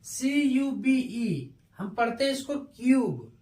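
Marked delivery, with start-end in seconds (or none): 0.1-1.5 spelling slowly. Shown as a demonstration. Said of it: "यू हो जाता है".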